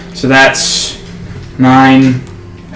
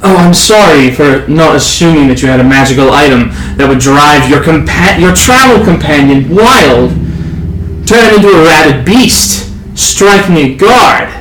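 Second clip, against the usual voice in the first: in-character sarcastic retort; sarcastic guard. Acted. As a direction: start sarcastic, build to rising outrage.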